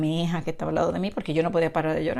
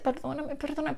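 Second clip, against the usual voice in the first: high, soft plea for forgiveness; retold pleading; 8 semitones higher, 7 dB quieter than usual. Believer begging God in her heart for forgiveness, retold pleading. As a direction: plead softly, pitched well up, reliving it. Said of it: "en mi corazón y decía".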